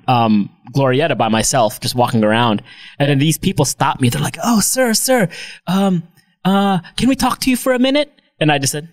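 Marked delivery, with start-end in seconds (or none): 4.4-8.1 higher, eager salesperson voice; imitating pushy mall sales staff; mock salesperson. Salespeople stopping him in Glorieta, mock eager pitch.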